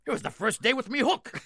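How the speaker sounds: high, loud pirate finish; pirate punchline. Retold or imitated. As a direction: land the joke in the pirate's voice. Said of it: "pirate's final punchline".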